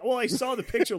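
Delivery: high, laughing, fed-up retort; mocking his own annoyed reaction to the film; exasperated retort. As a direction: throw it back, half laughing in disbelief. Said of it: "And I'm like".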